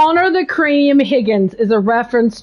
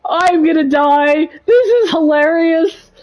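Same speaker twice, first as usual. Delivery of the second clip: laughing; 3 semitones higher than usual. Real, not acted. Laughing hard at the scene.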